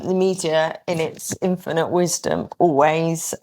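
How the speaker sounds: dry, understated sarcasm; a touch of mock reverence; sarcastic. Real, not acted. Interviewee digs at the media's wisdom, mildly sarcastic. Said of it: "that was sarcasm".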